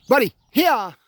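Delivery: loud, high recall command; calling out. Real, not acted. Trainer calling his dog to come back, loud command. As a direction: call him in, firm and loud.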